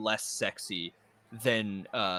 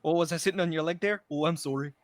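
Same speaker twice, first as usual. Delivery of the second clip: apologetic Canadian caricature; mock Canadian accent; 4 semitones higher than usual.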